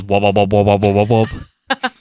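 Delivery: rapid wobbling "wub" noises; imitated cartoon effect. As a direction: mimic a pulsing cartoon power sound. Imitating the heart power effect.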